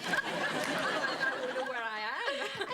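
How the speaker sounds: slow, laughing, lost for words; real laughter, dragging the words. Real, not acted. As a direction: laugh and lose your place. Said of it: "would you put my words back".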